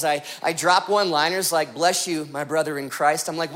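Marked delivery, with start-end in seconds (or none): 1.7-3.3 low, lightly put-on pious tone; mock spiritual. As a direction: bless them as if trying to sound holy. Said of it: "I try to sound more spiritual".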